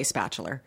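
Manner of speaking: "spatula" ending in an -er sound; New England R tacked onto "spatula"; added R ending. Shown as a demonstration. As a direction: say "spatula" as "spatch-ler". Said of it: "everything with an A has an E R".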